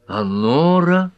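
high, slow, pressing question; insistent questioning. A narrator's reading. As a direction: draw the question out, rising anxiously. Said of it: "допытывалась Герми".

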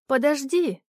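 a mild call after someone leaving. A narrator's reading. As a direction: stop her before she goes. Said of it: "крикнула Лайма". (негромкий оклик вслед)

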